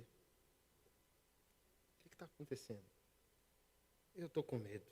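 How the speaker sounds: pergunta sussurrada e lenta da esposa preocupada; esposa sussurrando. Retold or imitated. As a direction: sussurre devagar, como a esposa que não entende. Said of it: "minha esposa não entendia". (a esposa pergunta baixinho, sussurrando devagar)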